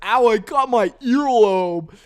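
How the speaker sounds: high, loud, drawn-out stoner voice; hammed-up laid-back dude; imitating The Illusion. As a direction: play the dazed bowl-cut guy fussing over a nick. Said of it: "He's like".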